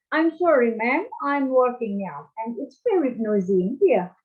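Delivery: mock-polite British phone apology; British accent. Shown as a demonstration. Teacher demonstrating a British accent to the class, lightly done. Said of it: "Itu British".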